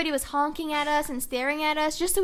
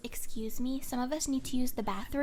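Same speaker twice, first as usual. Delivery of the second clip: softer imitation of a polite extra; mildly polite request; 2 semitones lower, 6 dB quieter than usual. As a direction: retell it as a quiet, inoffensive ask. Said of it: "If he said it like that, I wouldn't have been irritated".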